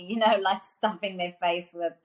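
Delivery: laughing through the words. Real, not acted. Guest laughing while describing party kids, laughing.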